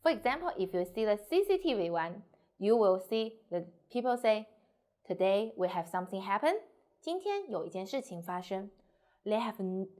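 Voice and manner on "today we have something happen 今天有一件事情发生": serious, unemotional newsreading of 今天有一件事情发生; flat intonation. Acted. CCTV presenter reporting an event, flat and serious on 今天有一件事情发生. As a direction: read 今天有一件事情发生 evenly, without emotion. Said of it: "flat because they need to seriously".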